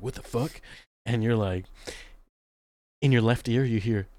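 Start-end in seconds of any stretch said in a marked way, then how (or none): 0.0-0.6 soft, puzzled mock reaction; muted disbelief. Person seeing an orange move by itself, muted disbelief. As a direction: mutter it under the breath, baffled.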